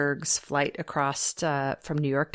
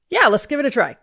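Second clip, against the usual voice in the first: louder, higher, laughing yes; nervous laugh; 14 semitones higher, 4 dB louder, faster than usual. Retold or imitated. Host agreeing to the producer's camera test, laughing nervously. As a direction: laugh through the fear.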